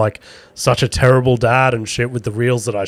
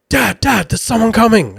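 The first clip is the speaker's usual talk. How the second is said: put-on much higher child's voice calling out; imitating his son; 10 semitones higher than usual. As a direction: mimic the little boy warning dad. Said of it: "starts going".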